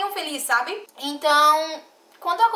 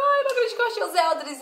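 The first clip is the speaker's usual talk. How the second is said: retold delight; 8 semitones higher than usual. Greeting the missionaries she found, thrilled and high. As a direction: gush with happy disbelief. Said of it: "Aí eu".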